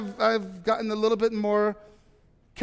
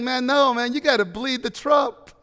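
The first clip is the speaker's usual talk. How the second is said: louder urgent voice of God; God's voice, urgent; 4 semitones higher, 5 dB louder than usual. Retold or imitated. Pastor voicing God to the congregation, loud and urgent. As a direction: press it hard, like God insisting. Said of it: "And God's saying".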